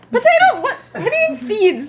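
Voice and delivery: sudden high, loud yelp of disbelief; loud sharp voice. Real, not acted. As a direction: blurt it out, shocked and high. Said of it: "Why'd you scream?".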